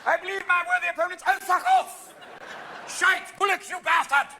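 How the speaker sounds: loud, high British parliamentary uproar; parliamentary heckling. Acted. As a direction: heckle like an outraged member of parliament.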